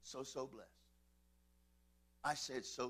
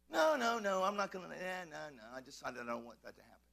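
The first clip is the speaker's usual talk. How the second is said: acted backing out; 3 semitones lower, 3 dB louder than usual. God imagined backing out at the last moment, mock reluctance. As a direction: start firm, then mumble away downward. Acts out God pulling help away.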